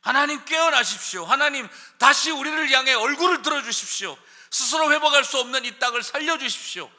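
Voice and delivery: loud, high pleading cry to God; crying out in prayer. Shown as a demonstration. Preacher modelling a desperate cry to God, loud. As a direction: shout the prayer up to heaven. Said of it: "하나님에게 소리치라는 것입니다".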